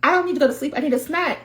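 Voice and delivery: put-on high-pitched toddler demand; two-year-old. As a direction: insist like a little kid at bedtime. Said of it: "a two-year-old is like".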